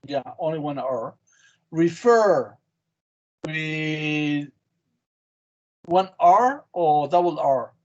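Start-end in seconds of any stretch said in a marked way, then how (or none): 1.7-2.6 "Refer" with a louder FER; stress on second syllable. Shown as a demonstration. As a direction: hit the FER in "Refer", then fall. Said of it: "the stress in the second syllable".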